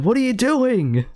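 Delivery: high-pitched mock dismay; imitated bewilderment. Gant looking at Sydney, imitated bewildered outburst. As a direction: act out an appalled bystander. Voicing Gant's shocked reaction.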